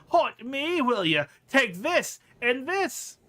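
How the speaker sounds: loud, high angry outburst; hammed-up fury, landing each blow on a word; Marta. Marta pounds the corpse.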